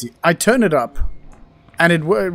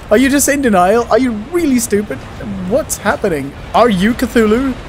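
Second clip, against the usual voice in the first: exasperated scolding; 5 semitones higher than usual. Real, not acted. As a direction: scold him in disbelief. Scolds a game character, Rennick.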